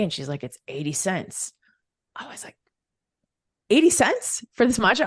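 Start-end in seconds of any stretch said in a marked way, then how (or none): 3.7-5.1 higher, louder incredulous question; astonished at a bargain; amazed disbelief. Retold or imitated. Customer reacting to the barista's eighty-cent price, amazed disbelief.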